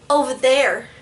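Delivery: a little sass on the order; sassy. Retold or imitated. Girl pointing them back, with light sass. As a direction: snap it with mock attitude. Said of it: "I just put a little, um, sass into that".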